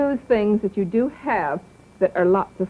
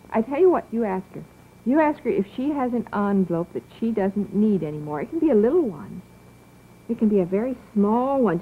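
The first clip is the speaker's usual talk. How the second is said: put-on gentle children's TV host voice; talking to small children. TV host coaxing the children at home, gently encouraging. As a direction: speak to a little child watching at home.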